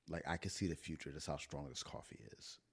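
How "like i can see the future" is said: too much caffeine. Real, not acted. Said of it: "the coffee has kicked in immensely".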